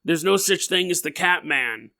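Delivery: a hint of a mock Scottish accent; lightly hammed-up Scottish local; a teasing Scottish accent, barely put on; Scottish impression. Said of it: "that was my Scottish impression".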